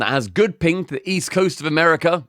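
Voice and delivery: lightly performed commercial read. Acted. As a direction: deliver it as a sponsor pitch. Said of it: "do it in an ad read".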